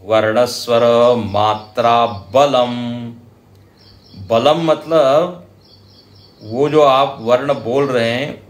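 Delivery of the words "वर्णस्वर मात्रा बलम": very slow measured recitation of the verse. Shown as a demonstration. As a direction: recite it word by word. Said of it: "reciting the shiksha verse". (धीमा श्लोक पाठ)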